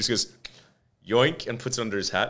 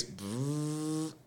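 mock tank fire; 5 semitones higher, 12 dB quieter than usual. Retelling Bart's tank scene, soft mock gunfire rattle. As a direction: rattle out a tank burst under the breath. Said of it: "And he goes".

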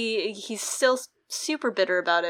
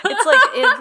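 slow "Oh my God" through laughter; laughing hard; 10 semitones higher, 7 dB louder, slower than usual. Real, not acted. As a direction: talk while you're cracking up. Cracking up at the joke.

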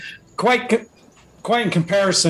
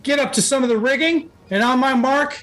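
barked orders; 4 semitones higher than usual. Acted. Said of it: "She goes".

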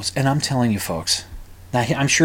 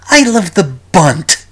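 a hint of a slow, doleful old governor saying I love the bunt; mock dour Cuomo; 4 semitones higher, 5 dB louder, slower than usual. Host mimicking Cuomo's documentary line, lightly doleful. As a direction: drag out I love the bunt like a glum politician. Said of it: "he says something completely ludicrous".

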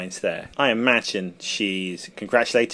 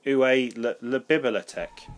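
British accent French; 3 semitones higher than usual. Shown as a demonstration. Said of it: "in a British accent".

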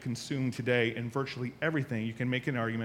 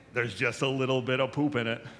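laughing reveal. Retold or imitated. Mom reveals the poop.

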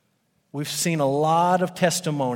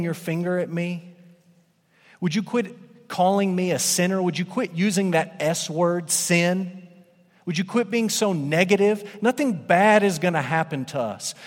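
mocking the sinners; 3 semitones higher than usual. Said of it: "those whose sin is being exposed are saying".

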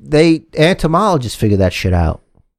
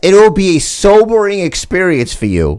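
wrestling promo; 5 semitones higher than usual. Pretend. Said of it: "cut a promo".

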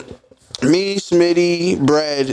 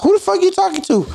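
higher pitched mock yell; 11 semitones higher than usual. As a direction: yell it from the car. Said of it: "old girl in the car yelled out".

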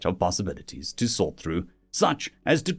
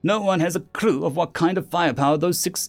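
lightly voiced officer, pitched up; tactical officer advising; 5 semitones higher than usual. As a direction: offer a counter-suggestion in a higher voice. Officer offers counter-suggestion.

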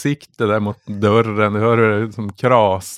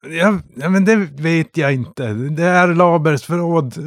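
a touch higher, anxious answering; nervous prisoner; 5 semitones higher than usual. Acted. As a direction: hurry to answer so they stop.

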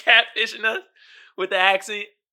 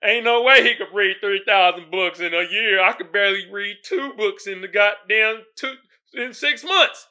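skeptical doubters. Retold or imitated. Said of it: "Everybody's like".

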